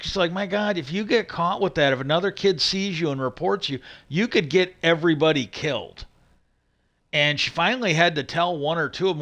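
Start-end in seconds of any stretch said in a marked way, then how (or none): 0.3-6.0 mildly alarmed quote, pitched a little up; retold freak-out. School head warning a kid they could get caught, retold mildly freaking out. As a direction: imitate an urgent, exasperated warning, lightly acted. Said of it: "freaking out".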